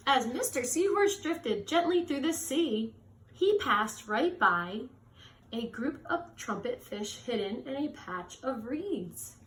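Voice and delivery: gentle storybook read-aloud; reading to children. A narrator's reading. Reading a picture book aloud.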